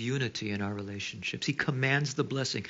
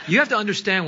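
laughing; 7 semitones higher, 7 dB louder, faster than usual. Real, not acted. Teasing crowd about hometown.

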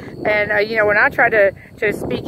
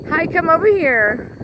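high, sing-song call to animals; cooing call; 7 semitones higher than usual. Real, not acted. Calling friendly to the cows in the field, high cooing. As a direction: coax the cows over.

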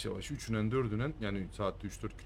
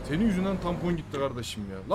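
angry; 4 semitones higher than usual. Real, not acted. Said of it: "Çok sinirlendim".

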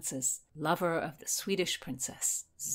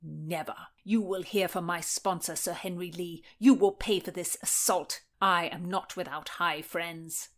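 lightly voiced threat of retribution; indignant nephew. Scratched nephew threatening his uncle, indignant.

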